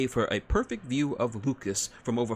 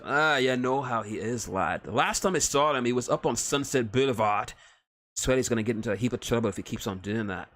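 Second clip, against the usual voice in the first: gruff Scottish-Irish dwarf; 2 semitones higher than usual. Acted. Dwarf on Groose.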